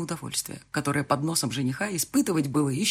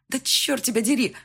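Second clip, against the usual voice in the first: frustrated curse; 8 semitones higher, 5 dB louder than usual. Acted. Cursing in frustration.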